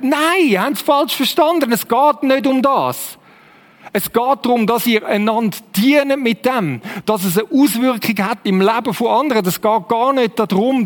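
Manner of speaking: lightly acted apostle setting people straight, pitch up at first; mild, emphatic protest in Paul's voice; Paul correcting. Paul tells the Corinthians they have misunderstood, lightly acted correction. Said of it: "Was wird der Paulus sagen?".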